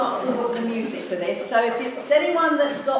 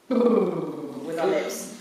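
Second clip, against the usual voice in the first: lip trill; 6 semitones lower, much slower than usual. Shown as a demonstration. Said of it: "let's do a little bit of".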